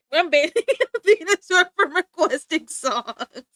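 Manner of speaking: loud, laughing decree; playful laughing verdict; laughing mock ban. Real, not acted. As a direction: banish him through giggles. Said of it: "Matter of fact".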